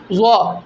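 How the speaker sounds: ضا as the heavy Arabic ظ, said alone; emphatic Arabic letter. Shown as a demonstration. Teacher naming the letter called zoe in Urdu, emphatic letter. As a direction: sound out ضا, thick and distinct from plain زا. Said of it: "جس کو اردو میں زوئیں کہتے ہیں".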